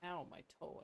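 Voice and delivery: pained ow after stubbing a toe; stubbed toe. Real, not acted. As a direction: say it right after hitting your toe. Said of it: "I just banged against the wall".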